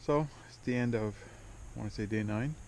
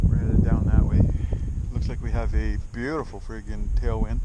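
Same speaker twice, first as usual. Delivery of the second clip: shouting over wind; 9 dB louder than usual. Real, not acted. Speaking over wind by river.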